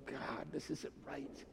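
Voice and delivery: soft, slow, far-away plea to God; hushed lament. Retold or imitated. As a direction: breathe it out as a weary prayer. Believer's quiet lament to God.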